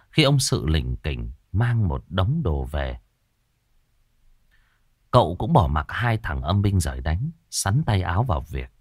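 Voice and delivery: plain reading voice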